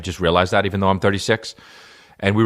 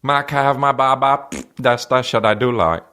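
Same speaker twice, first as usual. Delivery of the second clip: lightly voiced small child, higher pitch; a raised baby-of-the-family voice; little kid; 6 semitones higher than usual. Kid asks mom for a bottle, lightly put-on child voice.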